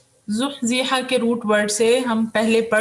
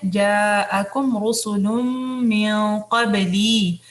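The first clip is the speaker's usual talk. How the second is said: slow melodic tajweed recitation; Quran recitation; much slower than usual. Shown as a demonstration. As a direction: chant the verse slowly and evenly.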